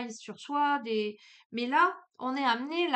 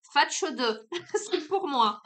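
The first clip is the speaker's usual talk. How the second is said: Marseille slang; 5 semitones higher, 6 dB louder, much slower than usual. Acted. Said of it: "en digne marseillaise que je suis".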